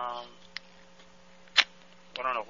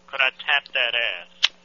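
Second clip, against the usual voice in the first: could I tap that ass, slowly and clearly; slow, deliberate repeat; 4 dB louder, much slower than usual. Pretend. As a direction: repeat it slower, word by word. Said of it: "Could you what?".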